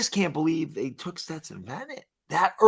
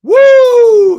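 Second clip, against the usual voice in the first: loud, high whoop; celebratory woo; 12 dB louder than usual. Real, not acted. Fan cheering his team's draft pick, loud whoop. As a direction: cheer like your team just scored.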